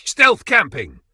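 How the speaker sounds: high, loud hammed-up announcement; excited. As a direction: blurt it out like a proud kid. Mocking Brendan stealth camping.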